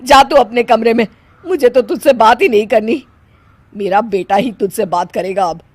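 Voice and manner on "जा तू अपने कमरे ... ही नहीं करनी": angry scolding. Acted. Mother-in-law scolds and sends away.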